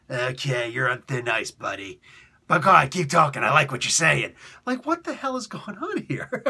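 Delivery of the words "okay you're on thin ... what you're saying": boss warning. Retold or imitated. Boss warning then approving.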